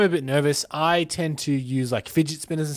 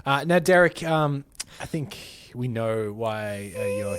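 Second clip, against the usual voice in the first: stern boss; 4 semitones lower, slower than usual. Pretend. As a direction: deliver bad news gravely. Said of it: "try and discipline someone".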